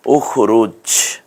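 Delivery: উখরুজ said very slowly; slow model word. Shown as a demonstration. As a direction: stretch উখরুজ out for students. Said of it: "একটু ভেঙে ভেঙে বলুন".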